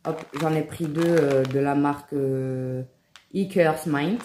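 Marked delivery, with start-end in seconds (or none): 3.3-4.2 English brand name in a thick French accent; bad English accent. Real, not acted. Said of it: "avec mon accent éclaté".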